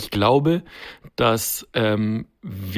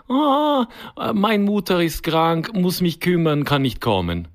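higher, slow Eastern European excuse; mock Eastern European accent; 4 semitones higher, slower than usual. Imitating the handyman's excuse in an Eastern European accent. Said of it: "wo du den Akzent grad so schön nachgemacht hast".

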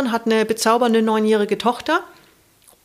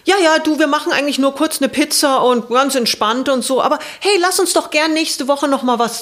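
higher, louder relaxed brush-off; breezy friend; 4 semitones higher, 5 dB louder than usual. Retold or imitated. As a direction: friend chattily putting it off. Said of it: "rief dann an und meinte". (hohe, laute, lockere Absage der Freundin)

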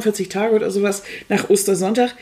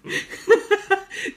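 laugh; 12 semitones higher than usual. Real, not acted. Laughs at the remark.

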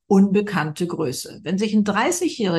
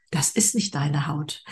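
whispered; 2 semitones lower, slower than usual. Real, not acted. Guest stresses inner worth.

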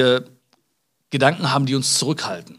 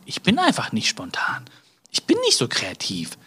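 mock whisper of a defensive friend; whispered reply; 2 semitones lower, 3 dB quieter than usual. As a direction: breathe it out, almost hiding.

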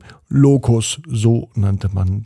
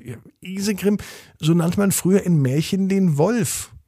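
put-on mother explaining an old word at bedtime; explaining mum; 7 semitones higher than usual. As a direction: gently explain it to your child. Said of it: "sagte die Mama".

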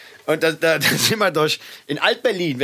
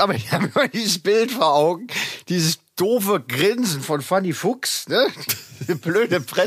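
stifled giggles; 3 semitones higher than usual. Real, not acted. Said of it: "Jetzt hör auf zu lachen".

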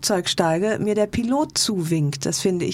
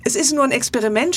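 mild retold shout; 5 semitones higher, faster than usual. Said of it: "schrie ich gleich hinterher".

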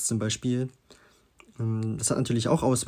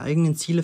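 "eigenen" lifted and louder before "Ziele"; stress on eigenen; 4 semitones higher, 4 dB louder, faster than usual. Shown as a demonstration. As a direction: underline "eigenen" with the voice. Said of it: "die Betonung liegt ja auf eigene Ziele".

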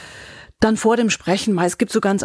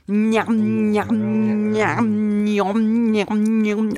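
chewing sounds; much slower than usual. Shown as a demonstration.

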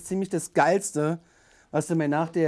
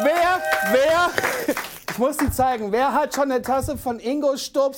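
high, giddy fan voice; bubbling over with delight; excited; 7 semitones higher, slower than usual. Real, not acted. Thrilled by the fan mug.

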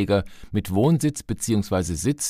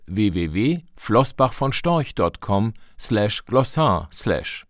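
slow spelled-out URL; slower than usual. Acted. Spelling out a web address.

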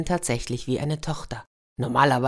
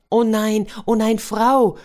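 alarmed cry, higher and louder; old man crying out in alarm; 6 semitones higher, 5 dB louder, slower than usual. Acted. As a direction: call out in dismay at his wife. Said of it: "rief der alte Mann".

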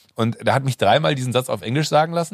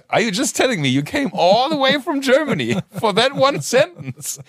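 high American disbelief, almost laughing; incredulous Keitel; 11 semitones higher than usual. Retold or imitated. Keitel amazed the guest flew from Germany, high disbelief. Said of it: "Und er so".

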